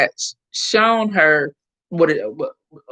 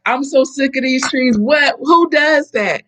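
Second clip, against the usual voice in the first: mock fed-up husband, louder and higher; exasperated husband; 7 semitones higher, 3 dB louder than usual. Retold husband grumbling about the trees, mock exasperated. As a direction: act out the annoyed husband ranting.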